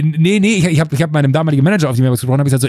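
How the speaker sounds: ordinary delivery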